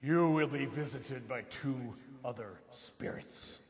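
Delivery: Grim Reaper voice. Acted. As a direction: intone it like a ghostly messenger. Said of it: "knock off the Grim Reaper voice".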